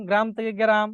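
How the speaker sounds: গ্রাম with joined gr, then as ge-ram; inserted vowel. Shown as a demonstration. Teacher lists examples for class, gram-to-geram pronunciation. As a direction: split the second গ্রাম with a vowel after g. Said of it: "মধ্য স্বরাগম".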